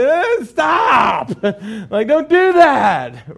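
high, loud shouted stop; sharp shout. Retold or imitated. Dad shouting at his toddler to stop. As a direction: bark a sharp warning. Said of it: "I was like".

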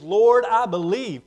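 loud, drawn-out declaration of faith; Lord, I believe, said loud and slow; emphatic. Acted. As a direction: proclaim it with full conviction.

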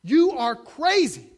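slow, loud, high mock shout; shouted quote. Governor shouting at the preacher, slow loud outburst. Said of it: "stands up and shouts".

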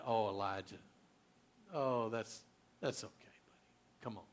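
soft, low mock-soothing pat on the back; baby him gently like a pal; coddling comfort. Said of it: "no rubbing his back".

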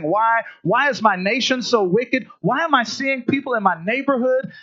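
high, insistent lament; exasperated complaint. Acted. Prophet asks God about his wicked nation, exasperated.

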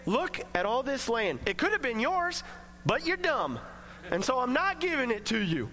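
lightly mocking, condemning God voice; mock scolding. A hint of a scornful God denying Abram the land. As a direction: sneer the rejected version.

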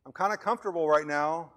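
high, loud mock whine of a complacent Christian; a hammed-up minister dodging evangelism; lazy minister. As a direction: make excuses in a put-on comfortable voice. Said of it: "that says".

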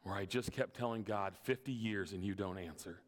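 put-on an old woman admitting her doubt; understated sorrow of Patty; quiet confession. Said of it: "She said".

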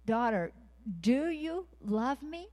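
high, slow, tender asking as God; gentle voice of God. Acted. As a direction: draw the question out high and slow, like the Lord calling a daughter. Voicing God asking daughter.

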